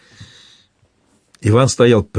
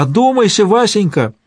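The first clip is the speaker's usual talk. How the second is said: high, anguished cry of a frightened wife; despairing scream, pitched high; desperate cry; 10 semitones higher than usual. A narrator's reading. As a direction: cry out in despair to mother and husband. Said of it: "в отчаянии закричала".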